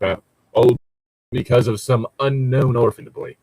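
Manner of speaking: put-on a light Swedish accent on an enraged old man. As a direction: rant in a slight Swedish accent. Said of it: "I don't know why I went Swedish there".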